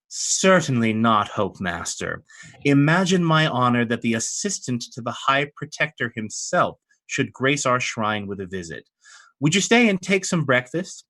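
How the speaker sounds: a hint of seductive, gracious welcome; provocative hostess. Radiant Mother invites the Hope Master to stay, lightly provocative. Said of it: "a provocative pose".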